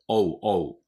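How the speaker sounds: "オー" as an English o gliding into u; "オー" as a short falling "ou" diphthong; correct "ou" glide. Shown as a demonstration. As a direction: say "オー" as two vowels run together, o-u. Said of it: "オーとユーですね".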